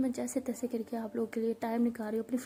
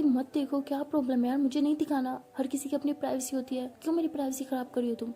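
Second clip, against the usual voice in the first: mild retold yelling. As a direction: imitate a friend snapping, a little raised. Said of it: "ऐसे मुझ पर चिल्ला रही होती है". (हल्की आवाज़ में चिल्लाने की नकल)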